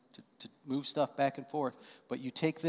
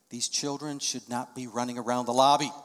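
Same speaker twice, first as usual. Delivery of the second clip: indignant complaint; 2 semitones lower than usual. Retold or imitated.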